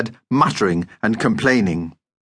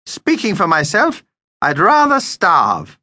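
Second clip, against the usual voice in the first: high, haughty vampire disdain; distaste; 8 semitones higher, 3 dB louder, slower than usual. A narrator's reading. Vampire tells Mum he won't eat this food, disdainful. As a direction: turn your nose up, dragging out the end. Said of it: "with distaste".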